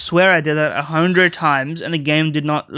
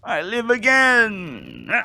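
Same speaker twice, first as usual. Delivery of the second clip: possessed spirit voice; 6 semitones higher, much slower than usual. Acted. Possessed character speaks in game.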